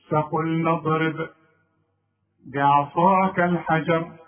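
فقل نضرب بعصاك الحجر drawn out; slow recitation. Shown as a demonstration. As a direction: recite it slowly, carefully. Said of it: "لما اقول". (تلاوة بطيئة متأنية)

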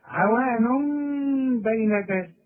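slow, all light letters in "عوان بين ذلك"; تلاوة بطيئة مرققة; slow recited demo. Shown as a demonstration. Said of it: "ذلك مد طبيعي وطلع لسانك وكلها مرققة".

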